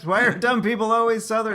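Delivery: high, laughing question. Real, not acted. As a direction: ask it while cracking up. Cracking up at the accent.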